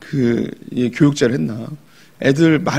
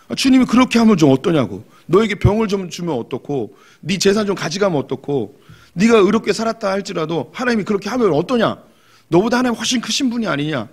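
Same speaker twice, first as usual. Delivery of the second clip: blunt and direct; 5 semitones higher than usual. Retold or imitated. Elihu bluntly rebuking a complaining believer, direct and pointed. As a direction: say it straight to their face. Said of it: "이건 아주 직선적으로 얘기하는 거예요".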